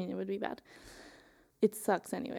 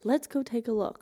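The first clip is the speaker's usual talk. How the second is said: higher, louder demanding command; imitating a pushy neighbor; demanding woman; 4 semitones higher, 4 dB louder than usual. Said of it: "She was like".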